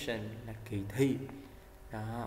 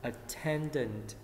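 attendant said very slowly, syllable by syllable; slow model word; much slower than usual. Shown as a demonstration. Teacher slowly models attendant for class. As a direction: stretch attendant out for students to copy. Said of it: "Hay chỉ người".

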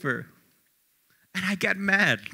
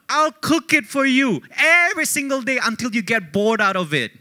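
mom's reply; 3 semitones higher than usual. Retold or imitated. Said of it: "what my mom responds".

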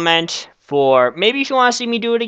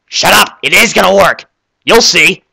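angry retort; 3 semitones higher, 5 dB louder than usual. Acted. Arguing back at heckler voice.

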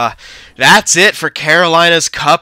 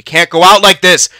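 louder, higher, urgent; raised voice begging the team; loud urgent plea; 6 semitones higher, 6 dB louder than usual. Real, not acted. Repeated, now loud and urgent.

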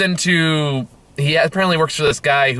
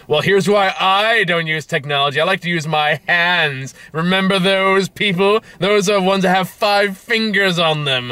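preachy soapbox guy; 5 semitones higher, slower than usual. Retold or imitated. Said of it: "that soapbox guy".

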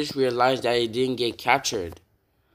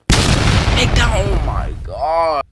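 much louder, much higher yell; excited shout; 5 semitones higher, 8 dB louder, slower than usual. Real, not acted. Gamer cheering his defense's takedown, full loud shout. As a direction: roar it at the screen.

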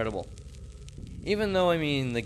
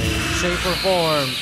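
rising plea; 5 semitones higher, 10 dB louder, slower than usual. Real, not acted. Pleading with crying ghost.

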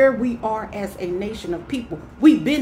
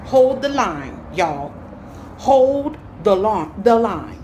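rallying call; 4 dB louder, slower than usual. Real, not acted.

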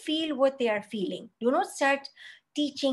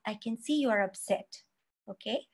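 soft, gentle comforting words; calm the crying child softly; soothing parent; 4 dB quieter than usual. Shown as a demonstration. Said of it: "You can say".

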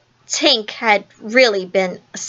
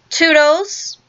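higher-pitched, understated cry for help; cry of appeal; 6 semitones higher than usual. A narrator's reading. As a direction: call on an ally by name, voice lifting at the end. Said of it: "I cried".

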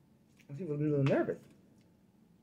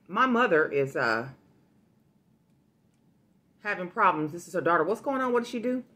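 posing as daughter; 4 dB louder than usual. Pretend. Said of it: "acting like I'm her daughter".

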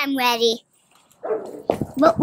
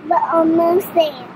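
a lightly put-on, slightly louder play-acting voice; put-on fancy voice; 4 dB louder than usual. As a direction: answer the mock couple game, half-joking. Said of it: "why we're talking like this".

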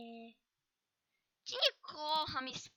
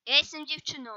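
loud declaration, stress on ja; shouting; 8 dB louder, faster than usual. Shown as a demonstration. To Cleverbot, shouting she is a girl. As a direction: shout it so he sees it. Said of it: "żebyś widział, że krzyczę".

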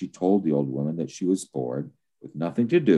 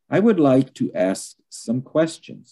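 Vasilisa; 10 semitones higher, 4 dB louder than usual. A narrator's reading. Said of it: "said Vasilisa".

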